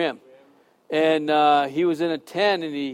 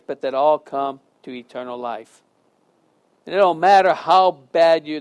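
prayer. Acted. Closing prayer.

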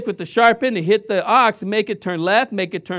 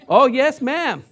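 put-on a bit higher, eager kid reply; Charlie Brown answering; 4 semitones higher, 3 dB louder, slower than usual. Pastor voices Charlie Brown answering his teacher, lightly. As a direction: lightly play the polite boy answering teacher. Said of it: "Charlie Brown when he's talking to his teacher".

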